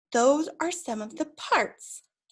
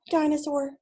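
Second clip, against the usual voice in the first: excited reveal; 3 semitones higher than usual. Acted.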